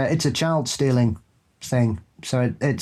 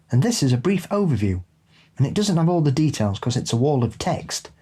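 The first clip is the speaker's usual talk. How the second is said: calm storytelling voice; story reading. Acted. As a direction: read the listener story aloud. Reads a listener story aloud.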